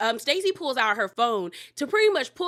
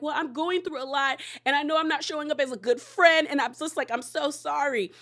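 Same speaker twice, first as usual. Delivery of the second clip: slightly higher, lightly imitated pleading; mock apology; 3 semitones higher than usual. Castmate excuses herself to the group, lightly mimicked apology.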